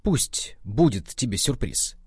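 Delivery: mock vengeful, drawn out at the end; vindictive. Boy mimics rival guide withholding a warning, vindictively. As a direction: imitate a spiteful rival, savouring the last words. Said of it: "А она так мстительно".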